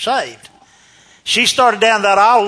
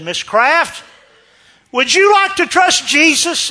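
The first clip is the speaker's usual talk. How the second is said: raised, high-pitched appeal; retold shouting; 11 semitones higher, 4 dB louder, slower than usual. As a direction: call the question into a deaf ear. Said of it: "I literally shouted the gospel".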